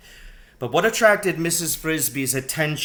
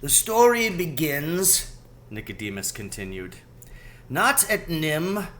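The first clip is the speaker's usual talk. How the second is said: a wise rat beginning his tale; lightly voiced rat telling his past; Nicodemus storytelling; 4 semitones higher than usual.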